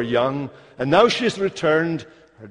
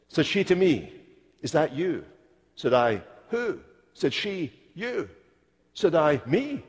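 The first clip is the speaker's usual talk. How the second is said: Scottish saying; 5 dB quieter than usual. Shown as a demonstration. Preacher recites a Scottish saying to the congregation, softly. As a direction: recite the wee Scottish saying, soft and lilting. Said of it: "there's a wee saying in Scottish".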